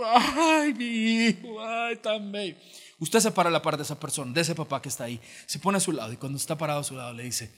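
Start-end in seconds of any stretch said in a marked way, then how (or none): 0.0-2.6 high, doting "ay mi hijo" of a tearful father; doting proud parent. Retold or imitated. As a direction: coo over the graduate like a proud parent, much higher. Padre llorando en la graduación. (padre orgulloso que arrulla a su hijo graduado, con voz mucho más aguda)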